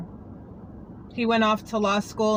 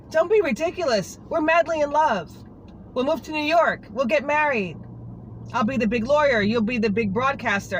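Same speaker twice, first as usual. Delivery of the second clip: lightly voiced eager boyfriend, higher pitched; imitating Jared; 5 semitones higher than usual. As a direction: play Jared brushing her fears aside, higher. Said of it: "He was like".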